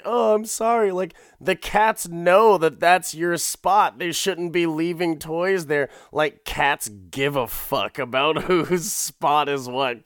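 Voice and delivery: a touch of the sweet apologetic wife; lightly voiced wife. Wife answers husband, voiced.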